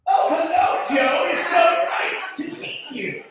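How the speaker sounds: high, slow, distorted mouth; half-paralyzed mother. Retold or imitated. Girlfriend's mother greets the boyfriend, high lopsided voice. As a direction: talk out of one side of the mouth, pitched high. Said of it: "And that's how she talked".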